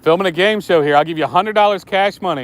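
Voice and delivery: upbeat host pitching a prize; game show host. Pretend. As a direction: hype it like a TV quiz host.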